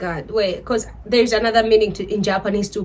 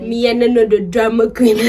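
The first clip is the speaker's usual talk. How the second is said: laughing try at Jamaican patois; attempted Jamaican accent. Shown as a demonstration. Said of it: "dig in a Jamaican accent and say".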